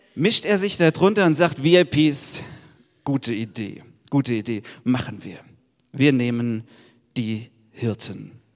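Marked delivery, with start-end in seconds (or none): 1.6-8.3 booming, deep, slow godlike voice. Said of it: "die tiefe Stimme Gottes".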